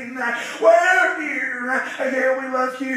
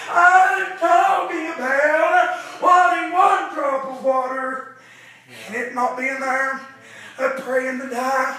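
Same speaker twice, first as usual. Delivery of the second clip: preaching; 4 dB louder than usual. Acted. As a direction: preach it out to the congregation with rising fire. Preacher chanting to congregation.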